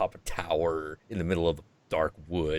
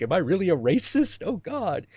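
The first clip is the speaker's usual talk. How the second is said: guilty German; 11 semitones higher than usual. Retold or imitated. Marx's German guilt voiced.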